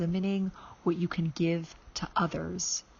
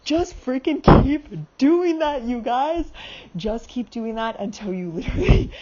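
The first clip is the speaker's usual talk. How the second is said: breathless excitement; 6 semitones higher, 8 dB louder than usual. Real, not acted. Out of breath from money dance.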